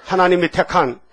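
emphatic short phrases for repeating; lead a declaration. Shown as a demonstration. Preacher has listeners repeat their identity, emphatic declaration. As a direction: declare it phrase by phrase, leaving room for echoes. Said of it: "따라하죠".

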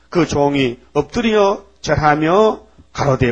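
slow, measured Bible reading; solemn scripture reading. Acted. Preacher reads Matthew to the congregation, slow and solemn. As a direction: read each word of scripture slowly.

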